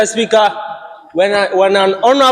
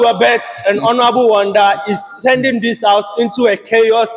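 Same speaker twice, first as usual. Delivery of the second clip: shouting. Real, not acted. Member protests in the chamber.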